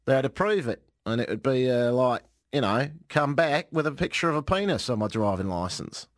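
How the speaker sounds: lightly put-on Australian accent; mock Australian accent, lightly done. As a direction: read his quote as an amateur Australian. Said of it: "I do a good Australian accent".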